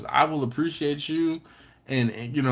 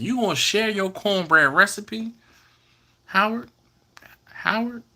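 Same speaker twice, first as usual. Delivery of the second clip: teasing call-out; 7 semitones higher than usual. Real, not acted. Calling out Howard playfully.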